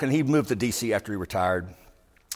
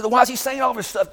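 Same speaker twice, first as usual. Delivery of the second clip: retold exasperation; 13 semitones higher, 3 dB louder than usual. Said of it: "I said".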